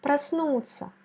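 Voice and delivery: Проснуться said prasnut'sya, the O reduced to A. Shown as a demonstration. Teacher repeats the word for student, O said as A. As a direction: model Проснуться with an A sound for the O. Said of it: "il faut la prononcer comme A".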